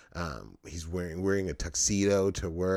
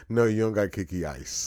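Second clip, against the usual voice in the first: loud mocking shout, far voice; 3 semitones higher, 6 dB louder than usual. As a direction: bellow it back mockingly. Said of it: "Sugar Ray's response was".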